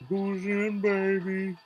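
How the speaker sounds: high, loud hype shout; hyped call. Real, not acted. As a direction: pump up the room. Hyped greeting.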